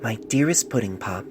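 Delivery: a touch lighter, tender reading; lightly voiced letter writer. Doctor reads the patient's love letter aloud, lightly voiced. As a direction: read the love letter as its young writer would say it. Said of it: "lightening his pitch".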